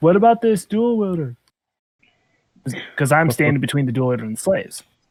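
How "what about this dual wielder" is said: very high-pitched shouting. Yelling back across the fight in character: yelling back in character. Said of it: "I guess I'd yell back".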